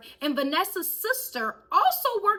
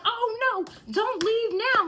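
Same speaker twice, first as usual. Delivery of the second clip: higher taunting call; mock taunting coworker; 9 semitones higher, slower than usual. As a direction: tease him not to go. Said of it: "she is like".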